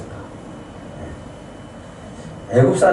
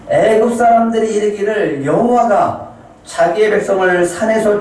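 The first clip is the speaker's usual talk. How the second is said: preacher voicing an earnest, raised-pitch plea; earnest pleading; 5 semitones higher than usual. Moses begging God to calm his anger, pleading earnestly. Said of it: "간절히 용서를 빌면서 간구".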